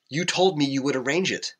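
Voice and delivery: high-pitched indignant outburst; retold anger. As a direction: replay the scolding, pitch way up. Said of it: "I was pissed".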